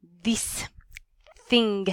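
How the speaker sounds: "this thing" with a short I, as in bliss. Shown as a demonstration. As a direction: keep the vowel short in "this" and "thing". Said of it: "Short I".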